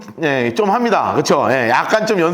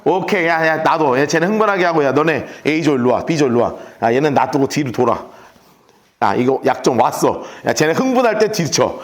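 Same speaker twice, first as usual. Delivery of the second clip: a hint of a calm, lower commander; cool strategist; 4 semitones lower than usual. Jeroboam calmly directing his troops, lightly voiced cool commander. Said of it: "가만히 지금 바라보는 거예요".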